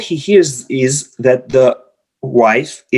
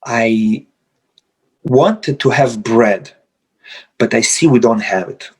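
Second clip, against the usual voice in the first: calm statement; 5 semitones lower than usual. Retold or imitated. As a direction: state it without blame. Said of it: "Or you say".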